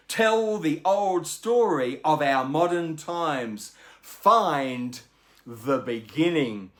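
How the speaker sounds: slow, measured epic verse reading; poem reading. Shown as a demonstration. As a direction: read it slowly like a bard, marking the beat. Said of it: "this is what we have".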